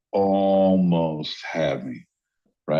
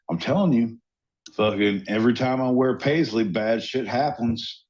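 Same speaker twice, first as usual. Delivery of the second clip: put-on Southern accent. Cohost griping about his Paisley clothes, Southern accent. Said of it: "I love the Southern accent".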